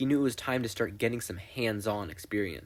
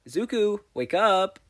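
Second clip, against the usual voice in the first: mom's firm wake-up call, higher and louder; commanding mom; 8 semitones higher, 5 dB louder than usual. A narrator's reading. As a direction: rouse her son, firmly. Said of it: "Inko commanded".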